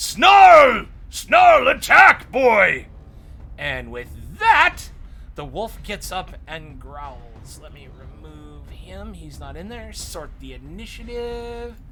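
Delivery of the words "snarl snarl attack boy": shrill, booming, very loud, high, drawn-out yell. The narrator voices Kring Grawl ordering his wolf to attack, yelling. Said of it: "And he yells".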